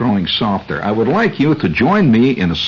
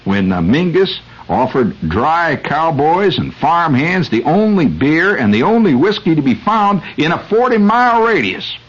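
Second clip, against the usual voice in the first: Texas accent; 2 semitones higher than usual. Shown as a demonstration. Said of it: "I'm gonna fall into my Mingus, Texas accent".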